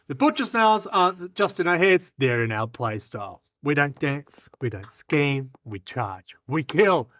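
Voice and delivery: short punched declarations; scripted rally, held back before the climax; rallying pitch speech. Acted. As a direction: build toward a war cry. Performs timed recruitment speech.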